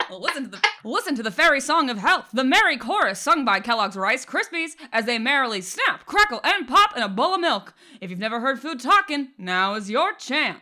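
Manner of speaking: put-on old-time radio announcer voice; bright, loud vintage radio ad read; 1930s radio announcer. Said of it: "do your best nineteen thirties radio announcer".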